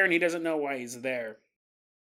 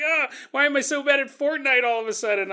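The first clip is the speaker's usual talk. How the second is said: higher-pitched gamer complaint; acted exasperation, pitched up; mock frustrated whine; 5 semitones higher, faster than usual. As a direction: whine in mild comic frustration. Voices frustrated gamer losing.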